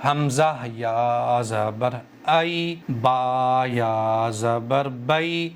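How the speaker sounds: "حمزہ یا زبر ائی" spelled slowly with a short, quick "ائی"; quick, unstretched ai. Shown as a demonstration. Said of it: "اس کو کھینچ نہیں رہا ہوں میں". ("ائی" اور "بئی" کو بغیر کھینچے جلدی پڑھیں)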